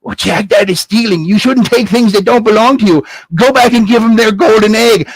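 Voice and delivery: lightly hammed-up stern mom; mother's scolding. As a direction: lecture the son firmly.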